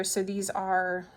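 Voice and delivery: talking with pins between lips; pins in mouth. Real, not acted. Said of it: "don't put pins in your mouth".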